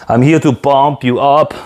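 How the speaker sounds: put-on lightly done Arnold Schwarzenegger accent, drawn out slowly; slow, not-quite-convincing imitation of an Arnold accent. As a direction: do a rough Arnold accent, stretching the words out. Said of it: "Mon accent de Arnold, il est pas excellent".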